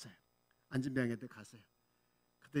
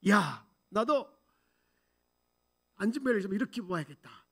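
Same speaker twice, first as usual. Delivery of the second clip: acted burst of eager resolve, raised opening; fired-up resolve; 4 semitones higher, 4 dB louder than usual. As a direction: declare it like someone suddenly fired up. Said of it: "막 불이 붙은 거예요".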